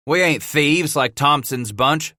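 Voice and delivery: lightly voiced growl, slow; mild slow growl. A narrator's reading. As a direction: grind it out slowly. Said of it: "Scratch growled".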